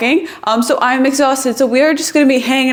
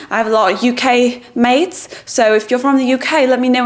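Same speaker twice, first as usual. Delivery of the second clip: playful little British accent; 2 semitones higher than usual. Shown as a demonstration. Showing off to UK viewers, British accent. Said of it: "I do my little British accent".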